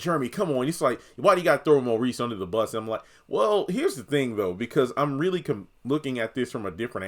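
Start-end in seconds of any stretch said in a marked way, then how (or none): 0.0-2.8 higher-pitched mock complaint; lightly acted exasperated objection; imagined viewer protest. Viewers object to Jeremy blaming Maurice, mock protest.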